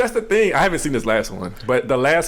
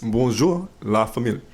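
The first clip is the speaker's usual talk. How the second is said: French accent attempt. Shown as a demonstration. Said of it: "That ain't no accent".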